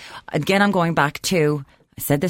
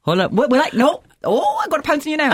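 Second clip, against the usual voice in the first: teasing cat with a mouse; 6 semitones higher than usual. Retold or imitated. Dragon teasing its prey like a cat. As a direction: toy with them like a cat. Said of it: "like a cat with a mouse".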